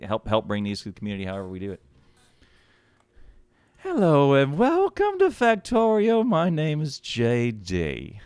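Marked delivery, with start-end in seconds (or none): 3.8-8.2 Australian host intro, pitch up high; JD impression. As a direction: greet the viewers like an excited Australian YouTuber. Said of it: "Clip that for J D".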